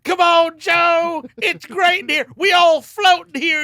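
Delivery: very high, loud, slow calling ghost. Pretend. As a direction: beckon from inside the storm, high. Dead man calls from tornado.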